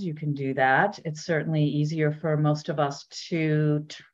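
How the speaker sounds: unhurried body-scan guidance with long pauses; measured meditation teacher voice; guided meditation. Real, not acted. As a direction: gently lead listeners inward, leaving space between phrases.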